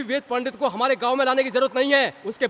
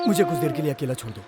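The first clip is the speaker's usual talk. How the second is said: low, sullen request; sullen withdrawal; 10 semitones lower than usual. Acted. Upset young man asking searchers to leave him alone, low and sullen. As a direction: sink low and shut them out.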